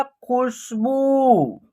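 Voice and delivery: खुशबू with a short first u and a drawn-out final ū; short then long vowel. Shown as a demonstration. Teacher showing how खुशबू is pronounced, short then long. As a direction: sound out खुशबू, holding the last vowel. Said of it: "इसका उच्चारण long तरीके से करेंगे".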